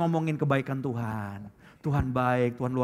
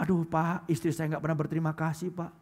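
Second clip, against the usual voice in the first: complaining husband; 4 dB quieter than usual. Retold or imitated. Preacher mimics husbands grumbling to the pastor, soft mock whine. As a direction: moan it like a worn-out husband. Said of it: "Banyak suami ngeluh".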